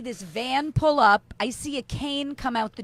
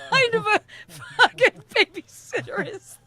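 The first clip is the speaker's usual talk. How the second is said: loud, high, disbelieving; outraged; 7 semitones higher, 5 dB louder than usual. Retold or imitated. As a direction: blast it in disbelief. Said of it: "I'm like".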